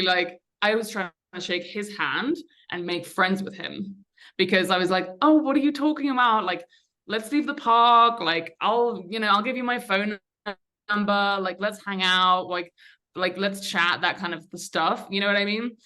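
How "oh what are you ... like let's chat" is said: breezy mock-innocent chumminess, pitched up at first; imitating an easygoing, friendly brush-off; casual friendliness. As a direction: play it like you're making a new pal. Retold befriending of an armed man.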